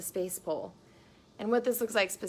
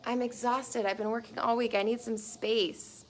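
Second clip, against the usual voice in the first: tired man; 3 semitones higher than usual. Retold or imitated. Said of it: "And he's like".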